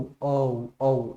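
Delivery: अ then उ said as separate linked vowels; glide demo. Shown as a demonstration. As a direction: blend अ into उ. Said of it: "इस तरीके से इसको यूं बोला जाता है".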